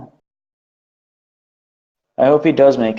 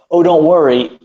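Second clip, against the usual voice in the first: mock reassuring friend; 2 semitones higher, 4 dB louder than usual. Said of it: "and then later he said".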